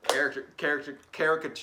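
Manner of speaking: false starts reaching for "caricature"; tongue-tied attempts at "caricature"; stumbling over pronunciation. Real, not acted. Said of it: "I can't talk".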